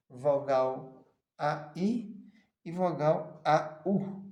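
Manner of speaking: "A I" and "A U" drawn out very slowly; slow teacher demo; slow sounding out. Shown as a demonstration. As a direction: stretch each vowel so students hear it. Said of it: "teacher sounds out diphthongs".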